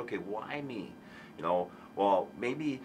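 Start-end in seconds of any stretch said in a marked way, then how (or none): 0.0-0.9 softer, curious asking; inquisitive. Retold or imitated. Counselor shows the inquisitive stage, quiet curious tone. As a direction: ask it quietly, genuinely wondering. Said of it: "Why me?" inquisitive".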